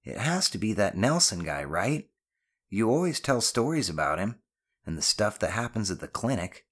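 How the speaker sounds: lightly voiced boy, eager guess; a hint of a teasing kid; knowing son. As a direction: work it out aloud as the son.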